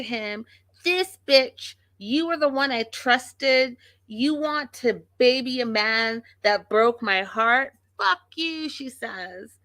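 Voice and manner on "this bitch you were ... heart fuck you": high-pitched imitation of a betrayed wife; mock angry rant. Vlogger imitates wife turning on the brother, mock fury. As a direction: mimic her outrage, voice pitched up.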